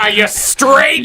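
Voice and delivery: high, drawn-out jeering shout; mock teasing. Friend playing parents teasing a son, high jeer.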